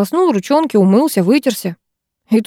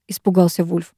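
ordinary delivery

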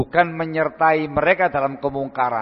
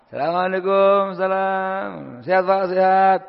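higher, eager polite greeting; mock courteous guest; polite visitor greeting; 6 semitones higher, 3 dB louder than usual. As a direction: act out a friendly visitor asking to sit. Preacher greets men at hangout.

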